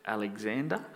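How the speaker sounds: soft, timid rising answer; a bit fearful. Acted. Soldier answers angry Alexander the Great, a bit fearfully. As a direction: answer softly, as if unsure it is safe. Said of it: "a bit fearfully".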